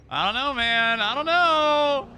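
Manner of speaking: high-pitched disbelief. Real, not acted. Streamer reacting, high strained.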